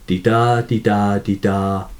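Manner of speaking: "di-da, di-da, di-da" as a repeated two-beat pulse; "di-da, di-da, di-da" in a steady iambic bounce; iambic rhythm. Shown as a demonstration. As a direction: chant "di-da, di-da, di-da" with the beat on "da". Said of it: "sound or, or rhythm".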